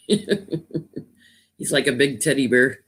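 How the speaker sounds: slow, laughing through the words; fond giggle over a cuddly pet; laughing fondly. Real, not acted. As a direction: chuckle as you talk about the cat. Cooing about the cuddly cat.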